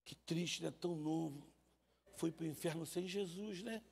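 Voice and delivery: pious lament. Retold or imitated. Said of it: "Aí você fala assim".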